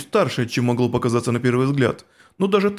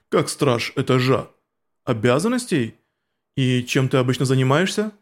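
stern insect warrior; 2 semitones lower than usual. Acted. Cocytus explains, low slow.

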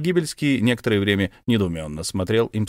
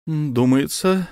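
cautious start; 6 semitones higher, much slower than usual. Acted. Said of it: "осторожно начал".

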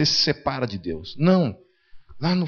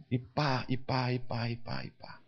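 fading mock slaps; 3 semitones lower, 14 dB quieter than usual. Mimicking mother's useless slaps.

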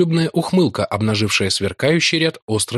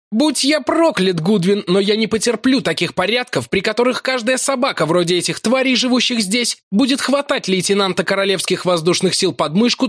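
higher, heated tirade; Larry bellowing at his carrier; angry yell; 11 semitones higher than usual. A narrator's reading. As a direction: rage at the frog-man. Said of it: "заорал он".

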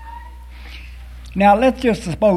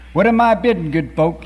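auctioneer crying out; 4 dB louder than usual. Acted. Auctioneer calling to the crowd for bids, raised and bright. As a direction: call out to the room for bids. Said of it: "he cried".

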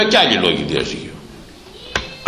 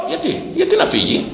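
much higher, insistent questioning; high indignant rebuke; 14 semitones higher than usual. Real, not acted. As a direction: rebuke the meddling mother from the pulpit. Preacher rebukes meddling mothers.

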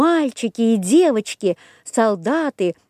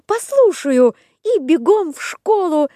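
put-on high chirpy wooden boy; bright eager puppet boy; Buratino voice; 8 semitones higher than usual. A narrator's reading. Buratino voice in story. (голос Буратино)

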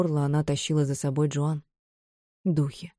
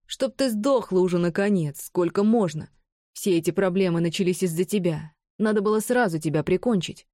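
angry; 2 semitones higher than usual. Acted. Bron's hateful outburst.

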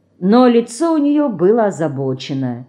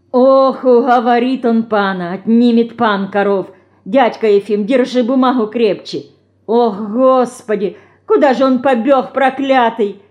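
mildly alarmed, louder lament; anxious wailing; 4 semitones higher, 4 dB louder than usual. Acted. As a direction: fret aloud that the cows will be lost. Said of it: "С тревогой заголосили солдатки". (с тревогой, причитая)

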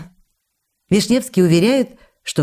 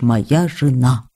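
slow, lower imitation of her husband; quoting her husband; 5 semitones lower, much slower than usual. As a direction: draw out the words as he says them. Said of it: "как ты говоришь".

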